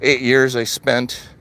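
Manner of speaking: ordinary talk, nothing marked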